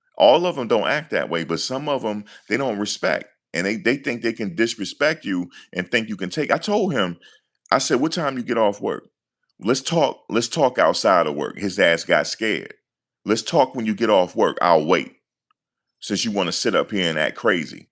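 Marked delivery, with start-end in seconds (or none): none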